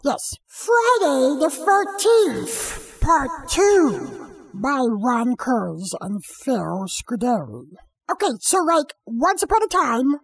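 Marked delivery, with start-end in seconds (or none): 0.5-7.7 movie trailer voice. Acted. Dramatic title read.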